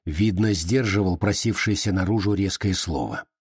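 plain reading voice

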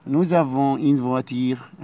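nous avons une villa, very slow, the s of nous said as z; careful teacher's liaison. Shown as a demonstration. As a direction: spell out the liaison slowly. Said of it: "هننطقها زد".

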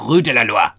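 Rue de la Loire with a French r; corrected French pronunciation. Shown as a demonstration. Correcting how co-host said Loire, French pronunciation. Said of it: "Actually, it's not Loire".

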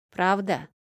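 певуче протянутое «Правда?» с подъёмом; пропой «Правда?» как хитрый мальчишка; напевно. Acted. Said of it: "пропел мелкий проныра". (напевный детский вопрос)

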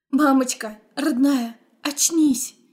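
ordinary delivery

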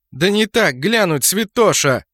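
loud, high, slow snarl; angry growl. Acted. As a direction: snap at him, exasperated. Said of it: "рыкнула Сцилла".

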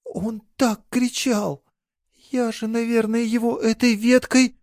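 she dreads what she's done; horrified. A narrator's reading. Girl confesses wounding the attacker to her lover, horrified. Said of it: "с ужасом выдавила".

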